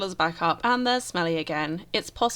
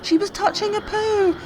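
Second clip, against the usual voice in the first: high, loud panicked pleading at Grim; frantic protest; 9 semitones higher, 5 dB louder than usual. Real, not acted. Gamer yells at Grim Reaper over dying Sim, high and frantic. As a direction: beg the reaper to leave, in real alarm.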